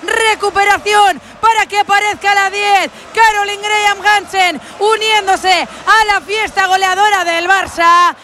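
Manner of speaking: high, shouted recap of the goal; excited goal commentary. Real, not acted. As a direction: keep the goal euphoria going. Commentator celebrates fourth goal.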